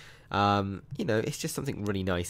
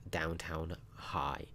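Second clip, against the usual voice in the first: dramatic whisper; 3 semitones lower, 11 dB quieter, much slower than usual. Acted. Dramatic reveal of the school.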